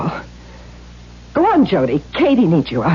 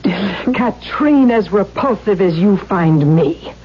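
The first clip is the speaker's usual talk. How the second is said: tearful; slower than usual. Acted. Pained plea to her father.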